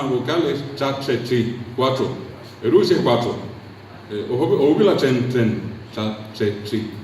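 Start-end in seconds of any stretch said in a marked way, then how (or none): 1.7-2.3 "Cuatro" with TR merged towards a "ch" sound; softened TR cluster. Shown as a demonstration. Showing why cuatro is hard to pronounce, "Cuatro" like "cuacho". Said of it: "nos cuesta pronunciar cuatro". 5.3-6.9 "chen, cha, che, chi" with one merged consonant. Shown as a demonstration. Showing the nearest consonant plus vowel, "chen" for tren. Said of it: "Eso es lo más próximo".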